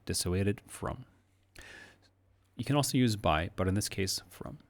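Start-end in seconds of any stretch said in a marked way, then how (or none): 0.0-1.0 slow "dissuaded from" with weight on "dissuaded"; stress on dissuaded. Shown as a demonstration. Teacher drills "dissuaded from" slowly, stressing "dissuaded". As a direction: lean on "dissuaded", then glide into "from". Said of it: "we always said dissuaded from".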